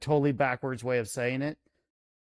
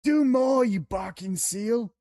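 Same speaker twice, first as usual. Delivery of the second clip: mock command; 6 semitones higher, slower than usual. Teasing command to entertain.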